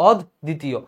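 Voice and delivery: অদ্বিতীয় split as "ɔd ... ditiyo"; doubled d. Shown as a demonstration. Teacher spelling out the doubling, split doubled d. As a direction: break অদ্বিতীয় between its two d sounds. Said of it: "তোমার দটা দুইবার যাবে".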